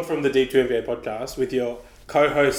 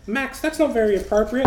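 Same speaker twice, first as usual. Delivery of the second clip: imitating dad; 10 semitones higher than usual. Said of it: "Dad was just like".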